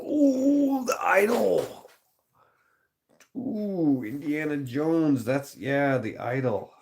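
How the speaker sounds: high squealing ooh at the idol; excited squeal. Real, not acted. Streamer thrilled by the idol scene suggestion, high squeal. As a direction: gush over the idol, way up high.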